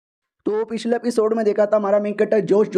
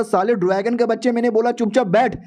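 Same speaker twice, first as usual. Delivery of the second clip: acted outburst of annoyance, higher voice; mock angry scolding; 3 semitones higher than usual. Man scolds the dragon that attacked while he was eating, mock angry. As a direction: scold with mild irritation, pitched a little higher.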